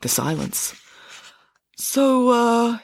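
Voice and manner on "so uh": put-on high, hesitant boy; awkward hesitation. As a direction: break the silence awkwardly. Parker awkwardly breaks stunned silence.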